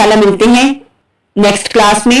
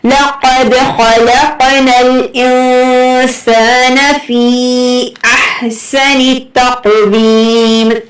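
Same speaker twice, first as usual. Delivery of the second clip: slow, measured recitation with long held vowels; Quran recitation; 2 semitones higher, much slower than usual. Shown as a demonstration. Teacher reading the full verse for students, slow Quran recitation. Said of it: "पूरी आयत एक ही बार पढ़ते हैं".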